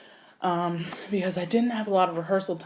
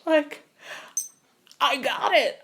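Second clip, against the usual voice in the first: retold excitement; 8 semitones higher than usual. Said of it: "I'm like".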